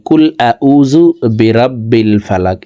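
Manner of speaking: কুল আউযু বিরাব্বিল ফালাক with plain K and open A; wrong reading. Shown as a demonstration. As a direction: show the common mistake, careless vowels. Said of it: "এইভাবে যদি অশুদ্ধ পড়ি". (অশুদ্ধ উচ্চারণ)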